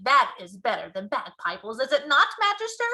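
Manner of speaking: a proud giant asking the Queen; loud, jolly giant voice; pleased BFG. A narrator's reading. BFG voice after whiz popper.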